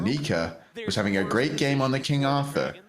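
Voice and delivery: put-on a light caster-style accent; Betty accent. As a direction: read it like an esports caster, lightly. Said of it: "I'll do my best Betty accent".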